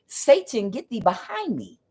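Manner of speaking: a hint of solemn Jesus; firm biblical rebuke, lightly voiced; Jesus rebuking Satan. Jesus rebuking the devil on the mountain, solemn. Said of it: "Jesus said".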